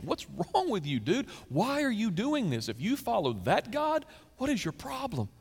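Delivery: high, incredulous demand; exasperated sailors. Acted. Sailors scolding Jonah, high exasperated questions. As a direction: throw up your hands at him.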